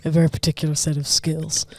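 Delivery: lightly voiced, deliberate film threat; deaf Liam Neeson. Warning a kidnapper about his skills, mock-menacing. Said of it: "Sounds like a Death Liam Neeson".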